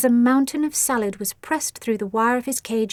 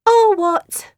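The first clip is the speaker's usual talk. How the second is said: higher bored challenge; bored and unimpressed; yawned; 10 semitones higher, 8 dB louder than usual. A narrator's reading. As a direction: Asti yawning at her sister's threat. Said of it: "yawned Asti".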